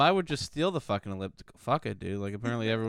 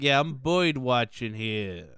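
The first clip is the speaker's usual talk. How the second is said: put-on slow, old-timey 1920s voice; 1920s guy voice; much slower than usual. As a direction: drawl it like a 1920s gent. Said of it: "like, a nineteen twenties guy".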